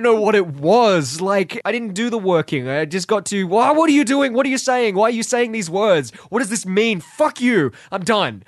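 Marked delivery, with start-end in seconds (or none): 3.5-8.4 exasperated. Retold or imitated. Retelling his baffled reaction.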